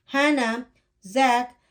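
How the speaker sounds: calling out. Acted. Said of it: "their mother called".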